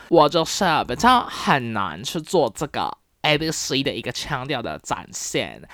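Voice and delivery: put-on American-born Chinese lilt in Mandarin; mock ABC accent. Demonstrating an accent the speaker cannot manage, mock ABC accent. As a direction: lightly imitate an ABC accent.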